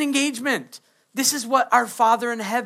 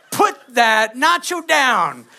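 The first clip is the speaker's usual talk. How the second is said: slow, louder scolding order; mock stern command; 5 dB louder, slower than usual. Imitating someone at dinner ordering a nacho put down, slow and loud. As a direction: lay down the law slowly.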